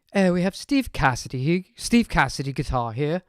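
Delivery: put-on a weak stab at a British accent; lightly put-on British presenter voice; terrible British accent. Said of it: "That's my terrible British voice".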